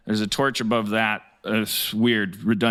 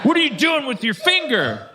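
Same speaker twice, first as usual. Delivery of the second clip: higher, louder snarling villain; suspicious jailer; 13 semitones higher, 3 dB louder than usual. Acted. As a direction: demand it like a furious warden. Judge Doom confronts the prisoner.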